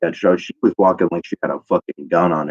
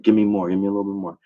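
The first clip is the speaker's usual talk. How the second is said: grunting demand; faster than usual. Retold or imitated. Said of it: "grunted and was like".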